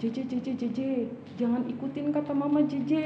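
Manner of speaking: softly coaxing pretend friend; tempting friend. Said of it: "terus ada temannya bilang gini".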